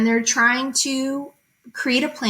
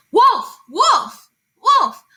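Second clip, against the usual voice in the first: loud, much higher frantic cries; shouting wolf; 10 semitones higher, 6 dB louder, much slower than usual. Acted. Shepherd boy calling villagers for help, desperate shout. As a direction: scream for help as the wolf comes. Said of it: "loud and long".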